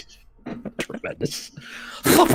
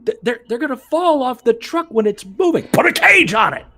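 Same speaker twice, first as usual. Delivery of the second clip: higher, faster insistence; mock excited pitch; 8 semitones higher than usual. Booker excitedly explaining the moving truck match. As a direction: rattle off the plan eagerly.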